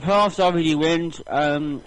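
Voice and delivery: talking while chewing; words round a mouthful of pasta; mouth full. Real, not acted. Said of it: "eating pasta".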